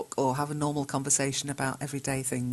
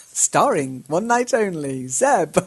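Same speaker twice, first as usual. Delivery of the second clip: high, loud ta-da announcer; grand showbiz announcement; 5 semitones higher, 6 dB louder than usual. Pretend. Teacher hamming up a student's forum entrance, grand announcer. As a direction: announce him like a star on stage. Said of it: "I love that".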